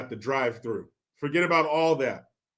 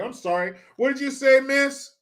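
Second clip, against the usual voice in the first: higher, mock-polite double take; sarcastic polite question; mock polite disbelief; 5 semitones higher than usual. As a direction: feign polite confusion. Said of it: "I was like".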